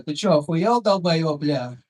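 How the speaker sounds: loud Russian curse at a driver; мат за рулём, громко; Russian road rage. Retold or imitated. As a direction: bark it out like an angry Lada driver. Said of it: "and I go".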